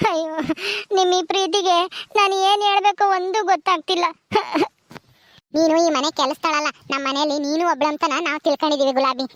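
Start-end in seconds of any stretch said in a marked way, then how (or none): 0.1-4.0 at a loss, near crying; tearful gratitude. Acted. Maid lost for words at their love, tearful. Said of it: "ಅಳ್ಬೇಡ". 4.1-4.7 small choked sob; brief sob. Acted. Maid overcome by affection, sobbing. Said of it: "ಅಳ್ಬೇಡ".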